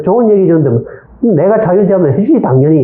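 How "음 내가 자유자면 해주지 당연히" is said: offhand promise. Acted. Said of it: "이랬어요".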